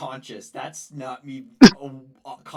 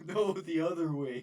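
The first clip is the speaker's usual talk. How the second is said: higher character voice, laughing in; Morgan impression; 5 semitones higher than usual. Shown as a demonstration. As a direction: laugh through the line, higher. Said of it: "how's your Morgan impression? Let me hear".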